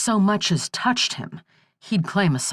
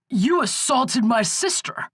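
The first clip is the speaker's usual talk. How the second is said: cried out; 7 semitones higher than usual. A narrator's reading. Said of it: "Skip cried".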